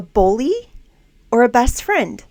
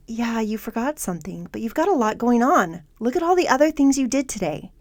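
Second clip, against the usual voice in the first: friendly inner voice; 2 semitones higher than usual. Acted. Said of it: "your friend voice says".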